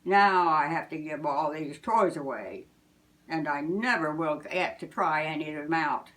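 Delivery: a hint of a pout; Santa grumbling. Santa to Missus Claus, mildly grumpy.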